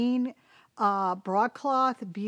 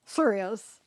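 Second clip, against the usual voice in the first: usual speaking voice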